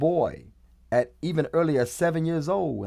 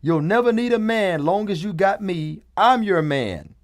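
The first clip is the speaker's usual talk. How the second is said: a hint of a sweet little boy, higher; mock little boy; 5 semitones higher, 3 dB louder than usual. Mocking the meme boy again to the listener, a higher light voice. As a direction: voice the toddler's promise lightly and higher. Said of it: "I repeat".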